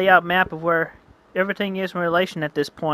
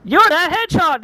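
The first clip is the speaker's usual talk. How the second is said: much higher, louder exclaim; surprised shout; 13 semitones higher, 7 dB louder than usual. Acted. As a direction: blurt it out in sudden recognition. Both recognize each other.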